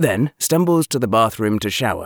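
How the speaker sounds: ordinary delivery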